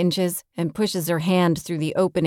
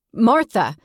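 higher call for Martha; raised, urgent hail; 4 semitones higher, 4 dB louder than usual. Acted. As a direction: call out for someone who hasn't answered. Calls Martha after silence.

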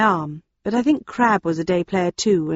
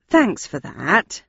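slow, dry sarcastic thanks; much slower than usual. Acted. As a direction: let the sarcasm drip. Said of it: "I said in as sarcastic a manner as I could".

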